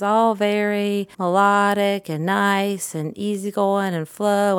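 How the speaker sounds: slow, lightly sing-song, easygoing voice; Mister Rogers. Shown as a demonstration. Describing a children's TV host, sing-songy. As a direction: draw it out gently and melodically. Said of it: "Mister Rogers voice".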